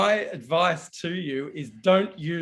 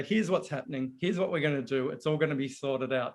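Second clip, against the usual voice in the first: calming reassurance; 5 dB quieter, faster than usual. Retold or imitated. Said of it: "he just calmed me down and say".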